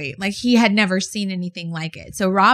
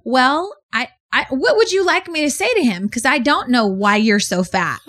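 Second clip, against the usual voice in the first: high, fed-up comeback; exasperated retort; 4 semitones higher than usual. Retold or imitated. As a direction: snap back at the stranger, exasperated. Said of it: "And she's like".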